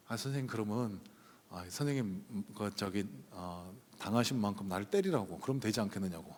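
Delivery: put-on gently calm a drunk man down; retold pastor's soft plea to the angry man; soft placating plea.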